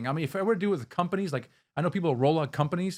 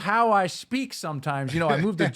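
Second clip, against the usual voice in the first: put-on Southern accent; 4 dB louder than usual. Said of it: "I guess this is my Southern accent".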